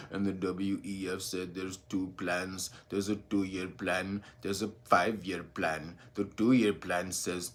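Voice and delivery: sit up straight and read it like a dull news anchor; stuffy newsreader. Pretend. Mocking the stuffy channels by sounding low, slow and dull. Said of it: "in the fuddy-duddy way, where a nigga sits down like this".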